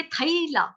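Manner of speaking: थैला said as thai-la with a split a-i diphthong; Sanskrit pronunciation. Shown as a demonstration. Teacher contrasts Hindi and Sanskrit थैला, saying thai-la. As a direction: say थैला as thai-la, both vowels heard. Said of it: "Sanskrit में बोलेंगे".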